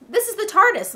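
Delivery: put-on lifted, announcing British-accented voice. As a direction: present it proudly in a lightly put-on British accent. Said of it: "he has a British accent".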